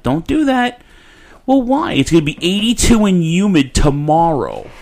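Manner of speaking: high-pitched retold protest; mock pleading. Tenant arguing with landlord over air conditioning, mock protest.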